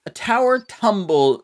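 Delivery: high, slow crazy map voice. Acted. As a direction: start the crazy voice, then break off. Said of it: "my crazy voice".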